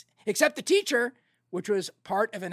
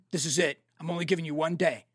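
low, measured imitation of a boss; stern warning; 4 semitones lower than usual. Spielberg warns his director by phone, mock stern. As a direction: lay down the limit in a lower voice.

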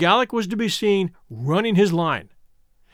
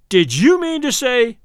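higher, louder, slow bullying; 5 semitones higher, 5 dB louder than usual. A narrator's reading. Carmichael confronting Charlie, bullying. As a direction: lean on him, pushing hard. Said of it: "began in a bullying tone".

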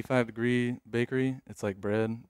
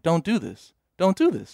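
inner pleading; 5 semitones higher than usual. Retold or imitated. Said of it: "And in my head, I'm like".

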